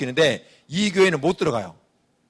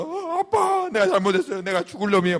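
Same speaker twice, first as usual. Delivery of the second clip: hammed-up crying plea, much higher; mock wailing apology; 4 semitones higher than usual. Son wailing apologies to his father, hammed-up. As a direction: overact a child wailing sorry. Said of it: "엉엉엉 울면서".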